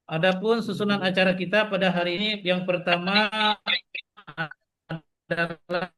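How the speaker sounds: audio breaking up on a bad call; choppy connection. Real, not acted. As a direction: voice cutting in and out. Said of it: "suaranya putus-putus".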